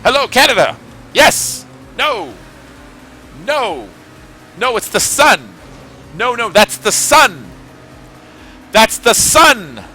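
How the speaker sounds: high, loud frantic phone yelling; cartoon caller voice. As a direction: shout down a bad phone line. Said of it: "his end is like".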